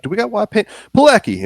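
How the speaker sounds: high-pitched call to someone off. Acted. Player in character leaving the room to find paint, calling out.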